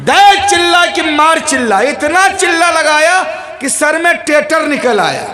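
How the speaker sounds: impassioned scolding sermon; fiery preaching. Acted. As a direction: thunder at the congregation about greed. Preaching at full force.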